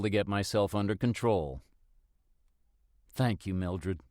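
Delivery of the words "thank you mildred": mild sigh. Acted. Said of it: "I sigh".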